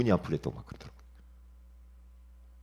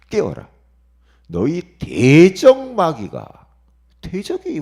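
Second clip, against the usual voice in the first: loud and high, slow on 대적 마귀; forceful preaching; 7 semitones higher, 15 dB louder, slower than usual. Real, not acted. Preacher reading 1 Peter to the flock, loud proclamation. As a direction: proclaim the warning like a call to arms.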